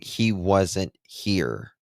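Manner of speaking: slow, flat, detached "He wasn't here"; flat imitation of the mother. Commenter mocking the mother's words, slow and flat. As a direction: mimic her cold, distant delivery. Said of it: "her saying".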